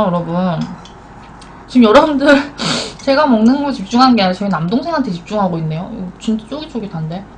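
eating between words; talking while chewing. Real, not acted. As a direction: mouth partly full of noodles. Seen 3: Lips pursed as if chewing; lifts noodles to mouth at end.

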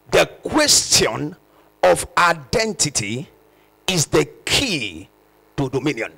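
slow, word by word, for note-taking; slow dictation. Shown as a demonstration. Preacher dictating the key line for notes, slow. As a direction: dictate it slowly so they can write. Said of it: "Write that down".

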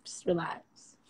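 soft unvoiced whisper. Real, not acted. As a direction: whisper it soothingly. Telling trolls to calm down.

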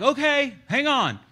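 high-pitched, loud acted stalling; put-on high voice, playing flustered soldiers; mock hesitant reply. Nervous Israelites reacting to taunt.

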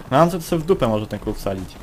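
ordinary talk

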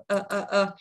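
"Ơ" as a short, relaxed uh; three brief "ơ" sounds, mouth naturally open; short relaxed schwa. Shown as a demonstration. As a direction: keep each "ơ" short and loose. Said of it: "đọc ngắn thôi".

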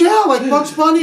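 high, bright matter-of-fact agreement; John's cheerful yes. Retold or imitated. John happily confirming his cartoon logic, high and cheerful.

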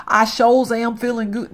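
half-hearted country accent; forced country voice. Shown as a demonstration. Streamer attempting male Sim's line, forced country voice. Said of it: "No, that's not a country voice".

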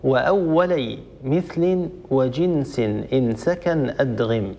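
slow, measured chanting of the poem line; slow tajweed-poem recitation; verse recitation. Shown as a demonstration. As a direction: recite the verse slowly like a memorized text. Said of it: "يقول رحمه الله".

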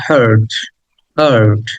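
হার্ট said with a lengthened আ; teacher stretches the আ in হার্ট; long আ. Shown as a demonstration. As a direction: draw out the আ in হার্ট. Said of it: "আ, একটু long করে বলতে হয়".

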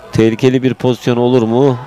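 normal talking voice

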